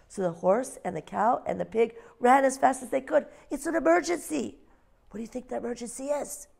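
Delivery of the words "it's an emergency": owl voice. Acted. Ozzie's line.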